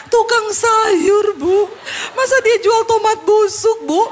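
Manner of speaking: high, loud, drawn-out whine; hammed-up tearful housewife; mock weepy complaint. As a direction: parody a silly grievance with a laugh.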